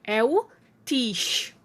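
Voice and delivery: teacher stressing the syllable "tis"; stressed syllable. Shown as a demonstration. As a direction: lean on "tis" as the strong syllable. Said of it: "a sílaba tônica dela".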